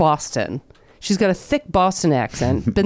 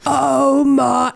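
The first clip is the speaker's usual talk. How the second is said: mock gushing; 7 semitones higher than usual. Mocking broadcasters gushing over a pitcher.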